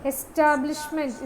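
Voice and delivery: എസ്റ്റാബ്ലിഷ്മെന്റ് stressed on its second syllable. Shown as a demonstration. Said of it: "രണ്ടാമത്തേലാണ് stress വന്നിരിക്കുന്നത്".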